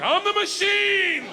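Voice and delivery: high, slow, drawn-out I'm the machine; high squeaky repeat. Retold or imitated. Frat boy repeating his line to the puzzled gangster, squeaky. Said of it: "I was like".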